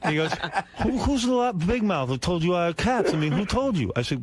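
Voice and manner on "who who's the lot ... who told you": lightly voiced Gary, a bit higher and indignant; a hint of Gary, offended and defensive; Gary impression. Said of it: "an impression of a great moment in Gary history".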